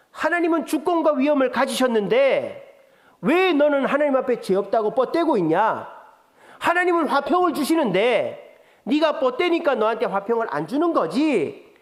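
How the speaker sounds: preacher voicing Bildad mocking Job, sarcastic; sarcastic jab. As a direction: needle him with fake piety. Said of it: "욥을 비난하는 말이 이 말인 거예요".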